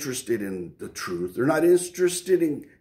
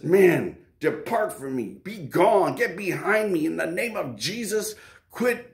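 commanding rebuke; 5 semitones higher than usual. Acted. David rebuking the enemy.

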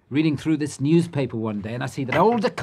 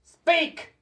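high, sharp jump out of hushed talk; sudden demanding shout; 3 dB louder than usual. Acted. Frightened inventor challenging whoever is at the door, high sudden cry. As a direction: demand an answer from someone unseen. Demanding answer from unseen visitor.

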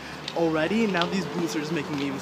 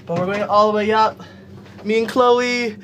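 higher and louder, breaking into a laugh; laughing excitement; 7 semitones higher, 7 dB louder, slower than usual. Real, not acted. On the lift with her new friend, laughing and excited. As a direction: squeal with giddy laughter.

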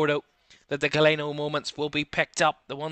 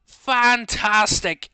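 slow, savoured praise; drawn-out praise; 4 semitones higher, 5 dB louder, much slower than usual. Real, not acted. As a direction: let the word linger in awe. After the goal call.

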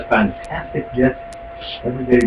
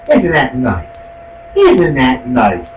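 sarcastic; 3 semitones lower, slower than usual. Real, not acted. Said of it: "repeated sarcastic".

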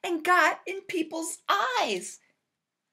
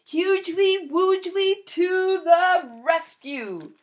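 heroic announcement; 3 semitones higher, 5 dB louder than usual. Acted. Hero announces rescue.

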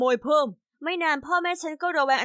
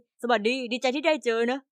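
flat, recited; 2 semitones lower than usual. Acted. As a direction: greet them like a rehearsed robot. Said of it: "เสียงเขาดูราบเรียบเหมือนท่องจำบทมาเลย".

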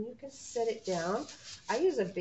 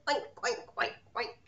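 mock oinking like a pig; pig oinks; faster than usual. Shown as a demonstration. Teacher showing preschoolers the pig sound, oinking. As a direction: oink like a cartoon pig. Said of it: "it makes a sound like this".

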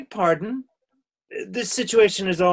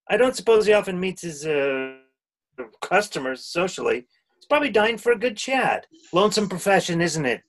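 sarcastic. Acted. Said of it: "Don't be sarcastic".

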